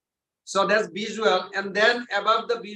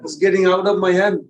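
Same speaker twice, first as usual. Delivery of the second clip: flustered Maya; 3 dB louder, faster than usual. Retold or imitated. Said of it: "Maya says".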